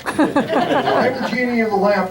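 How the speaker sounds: high, slow genie voice through a laugh. Acted. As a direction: draw it out like a grand genie. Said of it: "It worked better down there".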